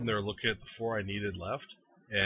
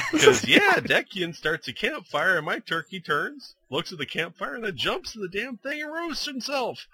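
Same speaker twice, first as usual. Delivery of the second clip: laughing storytelling; 9 semitones higher, 5 dB louder than usual. Real, not acted. Laughing while telling turkey story.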